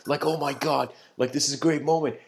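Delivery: happy, excited. Acted. Disciple thinks he will save the man, happily excited. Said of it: "he's so happy".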